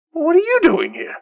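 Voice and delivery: high, startled-sounding demand; high-pitched challenge. Acted. Mari popping out of the fog, high-pitched challenge.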